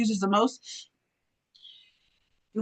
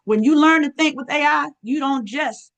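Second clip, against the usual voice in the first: empowering hype. Shown as a demonstration. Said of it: "That's how I talk".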